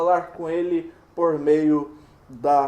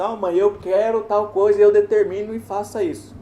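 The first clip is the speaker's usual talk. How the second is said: put-on bossy child; 3 semitones higher, 3 dB louder than usual. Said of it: "Quando uma criança fala com a mãe, fala assim".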